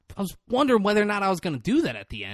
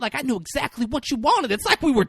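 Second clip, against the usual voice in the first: higher-pitched, aggrieved protest; mock upset; 5 semitones higher than usual. He imitates the upset client protesting to Marty. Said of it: "like, upset".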